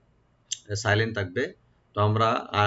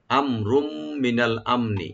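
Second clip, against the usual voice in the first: slow recitation; slower than usual. Shown as a demonstration. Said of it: "হামজাকে right দিবেন".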